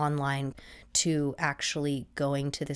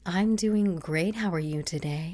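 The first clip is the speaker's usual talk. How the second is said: customer service voice; 3 dB louder than usual. Retold or imitated. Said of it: "customer service voice".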